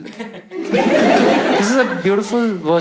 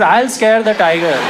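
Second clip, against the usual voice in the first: outraged disbelief; 4 semitones higher, 5 dB louder than usual. Retold or imitated. Comic repeats in disbelief.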